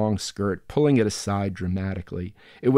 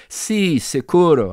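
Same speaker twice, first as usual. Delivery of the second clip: snapped; 8 semitones higher, 7 dB louder, slower than usual. Acted. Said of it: "I snapped".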